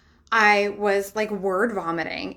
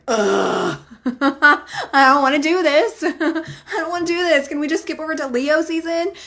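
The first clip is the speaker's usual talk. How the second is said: high, louder laughing groan of reluctance; laughing whine; 7 semitones higher, 6 dB louder than usual. Retold or imitated. Telling followers how she reacts to Cancer season, laughing whine. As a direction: whine through giggles, half mocking yourself.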